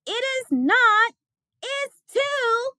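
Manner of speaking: high, mock bickering child; childish quarrel. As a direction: snap back like a stubborn kid.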